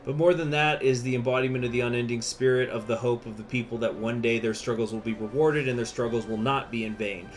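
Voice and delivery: rousing revolutionary speech. Acted. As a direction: declaim it to the comrades.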